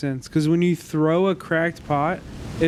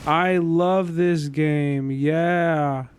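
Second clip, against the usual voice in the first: sarcastic slow-mo. Real, not acted. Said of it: "Why are you speaking in slow-mo?".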